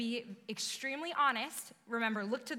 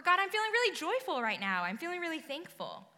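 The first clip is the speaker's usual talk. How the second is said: mock joyful prayer; 5 semitones higher, 3 dB louder, faster than usual.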